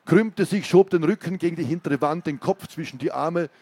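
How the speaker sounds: tense reading of the escape; story narration. A narrator's reading. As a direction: read it like a thriller passage.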